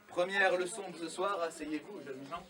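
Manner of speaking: grand showman voice; kids party magician. Acted. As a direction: announce it like a stage magician. Magician addresses audience grandly.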